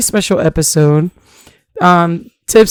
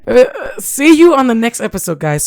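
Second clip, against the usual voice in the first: laughing; 4 semitones higher than usual. Real, not acted. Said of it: "final sign-off take, laughing".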